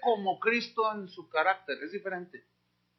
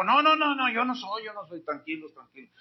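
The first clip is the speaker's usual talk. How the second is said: John calming the crowd. Acted. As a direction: settle them down, no no no. John denies being the Christ.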